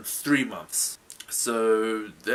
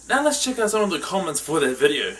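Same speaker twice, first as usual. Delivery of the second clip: projected, slightly raised explainer voice; show host presenter; 4 semitones higher, 7 dB louder than usual. Acted. Host explaining the game to viewers, projected presenter voice. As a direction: present the rules with punch.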